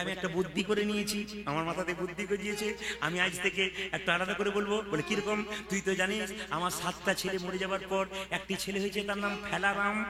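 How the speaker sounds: softly voiced old aunt, timid; hint of a fretful aunt confiding; aunt's voice. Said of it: "বলছে".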